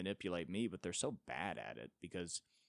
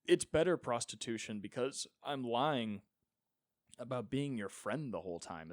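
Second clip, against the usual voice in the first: mock Gen Z voice; 2 semitones higher than usual. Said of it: "the most Gen Z thing in the world to be like".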